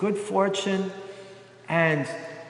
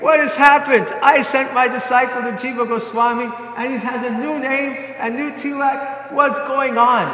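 raised, indignant questioning of the disciple; angry demand; 4 semitones higher, 4 dB louder than usual. Retold or imitated. Guru angry over disciple's new name, shouting at him. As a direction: demand it loudly, outraged. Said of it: "he became very angry".

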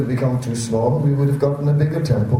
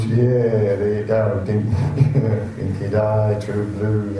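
laid-back mock Australian accent; relaxed Aussie; 3 semitones lower, slower than usual. Newcomer acting out the relaxed mood, easygoing Australian accent. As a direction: ease into lazy Australian slang, lightly put on. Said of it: "relaxed Aussie mood".

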